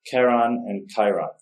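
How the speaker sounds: Charon as KAIR-on, Chiron as KAI-ron; "Charon" and "Chiron", both with hard K, vowels contrasted; contrasting similar names. Shown as a demonstration. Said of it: "that's pretty confusing".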